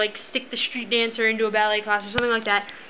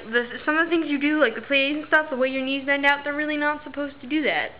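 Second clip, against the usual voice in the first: retold careful doctor, slightly higher; anxious not to offend; 4 semitones higher than usual. Doctor cautiously criticising ballet to a dancer, mildly anxious. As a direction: imitate someone gingerly raising an objection. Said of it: "so anxious about not offending me".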